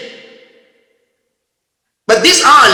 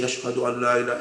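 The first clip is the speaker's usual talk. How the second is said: soft heartfelt recitation; 5 semitones lower, 10 dB quieter, much faster than usual. Retold or imitated. Alim fearing death, softly reciting the testimony. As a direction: murmur it as a sincere believer. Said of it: "what I normally say".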